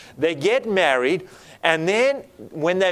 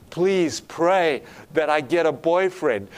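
slow, measured mock plea; retold pleading; slower than usual. Young lady asks the couple for prayer, mildly pleading. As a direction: plead lightly, drawing the words out. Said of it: "she was pleading with us".

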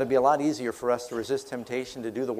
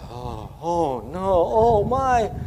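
mild mock dismay; much slower than usual. The people hear the spies' report, mildly alarmed. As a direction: fret like a frightened crowd. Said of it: "all the people began to".

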